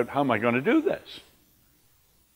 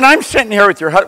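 loud, higher, confident pitch to the wife; emphatic retold phone call; 8 semitones higher, 11 dB louder than usual. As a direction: sell it to her on the phone.

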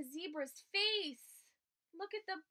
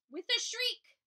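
shrieking; 7 semitones higher, 8 dB louder than usual. A narrator's reading. Narrating parrot shriek.

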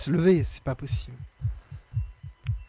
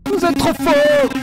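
slow, loud, overblown flattery; hammed-up cheer, drawn out slowly; loud mock praise; 9 semitones higher, 9 dB louder, much slower than usual. Exaggerated praise to chat, said twice.

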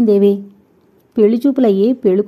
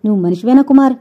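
scornful disgust; 3 semitones higher, 4 dB louder, faster than usual. Acted. Sridevi scornfully asking Kumar if he is even human. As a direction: spit the question at him in disgust. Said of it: "చేత్కారం చేస్తూ అంది".

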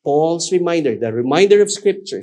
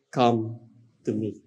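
hushed, lower, gentle call; whisper-close plea to draw them in; 4 semitones lower than usual. Acted. God's call voiced by preacher.

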